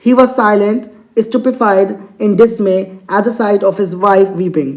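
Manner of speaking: slow, deliberate English reading; teacher reading a story to students, very slow; slow read-aloud. Acted. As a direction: read each word out slowly for the class. Teacher reads story text aloud.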